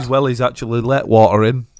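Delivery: complaining customer. Pretend. Mock complaining customer review.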